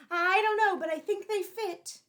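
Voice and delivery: put-on high, loud eager boy's voice; hopeful boy. Boy forcing on too-small shoes, high and eager. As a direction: talk yourself into it, bright and hopeful.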